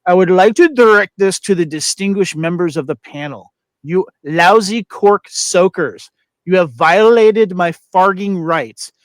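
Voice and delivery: put-on mangled foreign accent, declaiming; hammed-up foreign-accented indignation, loud at first; Roman Moroney. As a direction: address the court in butchered English. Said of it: "just totally butchers the English language".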